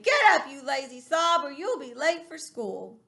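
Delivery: loud wake-up call, easing off; impatient father rousing his son; father's real voice. Acted. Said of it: "hearing my father's real voice saying".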